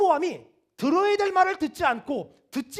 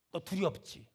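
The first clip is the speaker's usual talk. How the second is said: low, hushed taunting question; Satan's insinuation; 8 semitones lower, 9 dB quieter, slower than usual. Acted. Satan needling a believer about fear, low insinuation. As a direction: plant the doubt softly and low.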